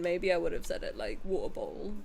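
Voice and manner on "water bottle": "water bottle" in a London accent, t's softened away; casual London pronunciation of "water bottle". Shown as a demonstration. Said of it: "when I used to live in London".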